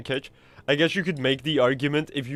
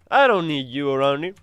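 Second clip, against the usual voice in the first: bad American accent; 7 dB louder than usual. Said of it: "worst American accent I've ever done".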